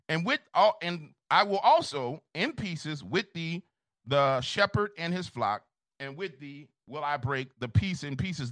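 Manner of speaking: rolling, rhythmic preaching cadence; scripture recitation. Acted. Pastor reciting Jeremiah to Alex, rhythmic preaching cadence. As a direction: chant the verse like a pulpit reading.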